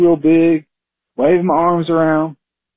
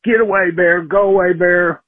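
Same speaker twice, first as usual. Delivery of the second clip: retold yell; 5 semitones higher than usual. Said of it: "and yelled".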